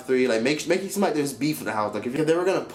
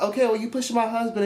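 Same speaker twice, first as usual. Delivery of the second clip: raised, accusing mimicry; imitating Queen; 8 semitones higher than usual. Vlogger voicing Queen accusing Bianca, pitched up. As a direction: throw the blame back, pitched up. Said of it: "Queen was like".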